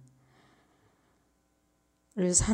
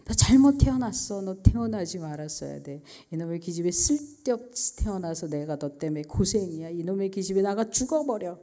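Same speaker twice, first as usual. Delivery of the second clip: cursing; 3 dB louder than usual. Retold or imitated. Mother cursing her daughter, imitated angry scolding. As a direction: hurl out a retold motherly tirade. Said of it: "모든 욕을 다 해서".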